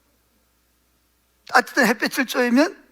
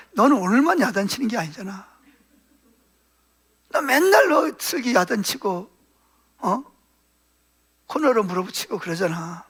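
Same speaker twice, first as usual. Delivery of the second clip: gentle rebuke; 3 dB quieter than usual. Retold or imitated. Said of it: "주님이 이런 말씀을 하시는 것 같은".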